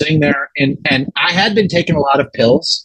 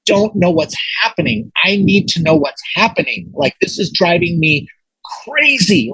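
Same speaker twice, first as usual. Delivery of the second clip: raised-pitch retold plea, peaking on crazy; crying out; 4 semitones higher than usual. Man begging the universe for answers, crying out. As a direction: plead upward in frustration, without shouting. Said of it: "crying out to the universe".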